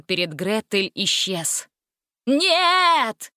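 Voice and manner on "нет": high, forceful cry of refusal; cried out. A narrator's reading. Witches protest as barrier falls, crying out. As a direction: cry out in protest, pitch raised. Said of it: "хором закричали ведьмы".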